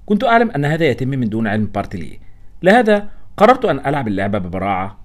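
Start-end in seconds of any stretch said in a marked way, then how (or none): none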